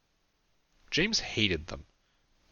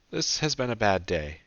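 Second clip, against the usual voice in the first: shaky voice; 3 semitones higher than usual. Acted. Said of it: "in a shaky voice".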